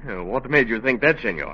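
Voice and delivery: light put-on Spanish accent, a detective in disguise; a lawman faking a mild Spanish accent; phony Spanish accent. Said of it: "with that phony accent".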